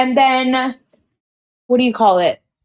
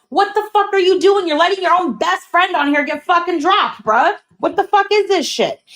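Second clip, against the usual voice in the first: higher, mock angry callout; retold yelling at Logan; 6 semitones higher than usual. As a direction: replay the heated callout, pitched up. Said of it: "I said".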